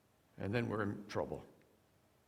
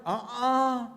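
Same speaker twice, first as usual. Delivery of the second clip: laughing no; 12 semitones higher, 7 dB louder than usual. Real, not acted. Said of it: "preacher rejects it".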